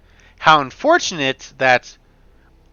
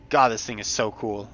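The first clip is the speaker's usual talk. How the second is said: soft awe; 5 semitones lower, 5 dB quieter than usual. Real, not acted. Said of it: "I'm sorry, I'm so".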